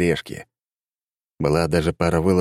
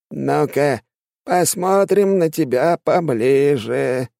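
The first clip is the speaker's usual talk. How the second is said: sneering villain; 9 semitones higher, slower than usual. A narrator's reading. Shaman sneers, leaning in.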